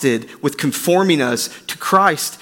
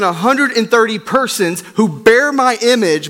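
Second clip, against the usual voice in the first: pleading God; 4 semitones higher than usual. Acted. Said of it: "He says".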